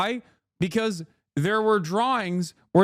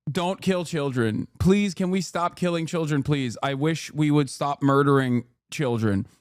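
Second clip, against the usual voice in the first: low, gentle mock plea; Miss Rachel; 7 semitones lower than usual. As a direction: plead mildly, in a lowered voice. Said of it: "things that Miss Rachel is saying".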